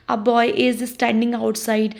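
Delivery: slow, each word laid out; teacher reading a slow example; slow example sentence. Shown as a demonstration. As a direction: read the example slowly for students. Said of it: "मतलब कोई भी boy".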